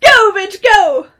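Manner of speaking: loud hype cheer. Real, not acted. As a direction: egg her on, loud and fast. Cheering on a bong hit.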